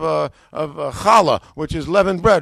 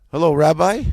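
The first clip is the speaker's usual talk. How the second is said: hopeful phone greeting; 7 dB louder than usual. Retold or imitated. Acting out his phone call to rabbi.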